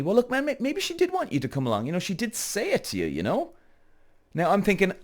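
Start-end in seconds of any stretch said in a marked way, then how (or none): 0.0-3.5 high, softened voice imitating a placating friend; calming a friend down. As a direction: gently talk him round in a raised pitch. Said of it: "he's trying to calm me down".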